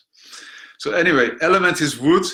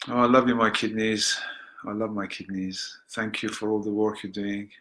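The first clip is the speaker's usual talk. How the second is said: guided meditation. Acted. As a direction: lead them gently into the practice. Leads a guided healing practice.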